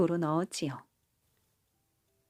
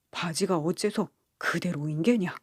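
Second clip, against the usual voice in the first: a light gruff scold from the rich father; lightly voiced angry father demanding answers; 2 semitones lower than usual. Rich father scolding his three daughters, mild gruff scold. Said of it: "부자는 화가 나서 세 딸을 불러놓고 호통을".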